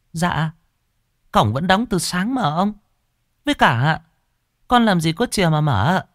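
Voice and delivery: put-on high, polite young maid; servant girl's voice. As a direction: lift the voice up like a deferential young servant girl. Maid answers master. (giọng cô hầu gái trẻ, cao và lễ phép)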